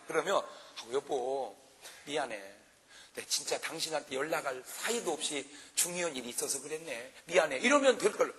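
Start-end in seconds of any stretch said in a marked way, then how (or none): 0.4-7.6 soft, low apologetic husband; gentle apology. Retold or imitated. Husband apologizing softly to wife for coming home late. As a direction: murmur sorry tenderly to your wife.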